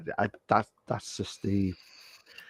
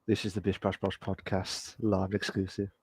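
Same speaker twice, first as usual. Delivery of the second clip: 1 mock ASMR intro; 2 semitones lower, 10 dB quieter than usual. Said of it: "the A S M R version".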